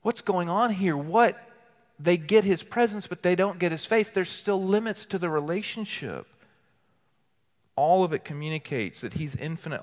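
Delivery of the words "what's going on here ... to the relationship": puzzled wondering. Retold or imitated. Preacher voicing the hearers' puzzled question, mildly astonished. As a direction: wonder aloud what is going on here. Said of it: "We're supposed to go".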